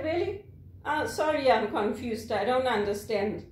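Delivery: mock-innocent puzzlement; playing dumb. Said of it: "play dumb".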